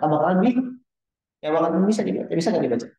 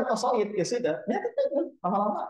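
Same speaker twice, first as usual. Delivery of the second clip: laughing; 8 semitones higher, 4 dB quieter than usual. Real, not acted. Laughs at his own joke.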